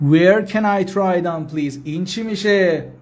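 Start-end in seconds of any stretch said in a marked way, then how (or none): 0.1-1.8 slow, carefully spaced English; slow teaching demo. Shown as a demonstration. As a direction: spell it out slowly for learners. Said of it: "teacher repeats phrase for learners".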